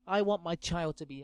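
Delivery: ordinary talk, nothing marked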